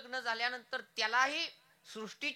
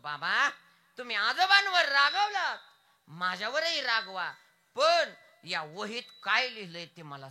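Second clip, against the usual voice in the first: put-on pleading child; 4 semitones higher, 9 dB louder than usual. Child pleads with angry father.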